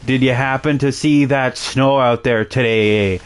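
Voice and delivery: lightly hammed-up Canadian accent; comedy-sketch Canadian accent; stereotypical Canadian. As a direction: mimic a stereotypical Canadian making small talk. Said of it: "being stereotypes of Canadians".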